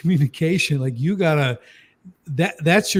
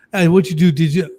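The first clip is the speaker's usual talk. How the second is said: put-on parent asking kids; 7 dB louder than usual. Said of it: "you ask them something".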